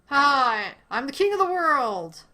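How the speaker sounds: loud, high proclamation; triumphant shout. Real, not acted. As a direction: proclaim it like a victor.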